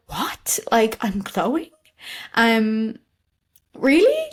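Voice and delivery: can't believe what she's hearing; incredulous disbelief. Retold or imitated. Disbelief at being told she glows.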